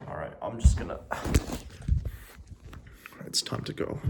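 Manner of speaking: whispered, hushed; whispering. Real, not acted. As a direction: whisper it to yourself. Whispered before leaving.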